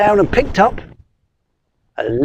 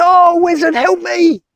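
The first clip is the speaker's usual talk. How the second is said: high squeaky plea; pleading spider; 10 semitones higher than usual. Acted. Spider begging the wizard, high and pleading. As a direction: beg in a tiny high voice.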